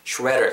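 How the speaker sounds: "shredder" American style, ending on a curled r; today's r-coloured pronunciation. Shown as a demonstration. Teacher modelling today's version, "shredder" with r-coloured ending. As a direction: say "shredder" non-British, with r-sounds. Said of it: "정도로 발음할게요".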